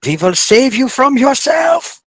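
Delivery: high, slow, eerie pronouncement; ominous authority voice. Pretend. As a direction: intone it like a creepy overlord. Mock voice of an authority.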